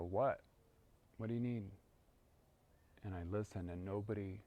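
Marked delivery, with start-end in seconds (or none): 0.0-1.6 startled answer. Retold or imitated. Woken, answering a call.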